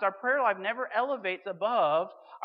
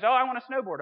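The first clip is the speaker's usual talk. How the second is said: put-on higher, louder excited child; eager kid; 6 semitones higher, 8 dB louder, faster than usual. Next kid rushing his wish to Santa, higher and louder. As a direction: blurt it out like a keen child. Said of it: "the next guy goes".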